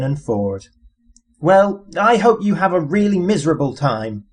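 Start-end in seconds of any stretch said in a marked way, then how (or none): 1.4-4.2 sulky complaint, a bit higher; complaining. A narrator's reading. Arthur sulking as he is left behind, complaining. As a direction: grumble it resentfully. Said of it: "complained Arthur".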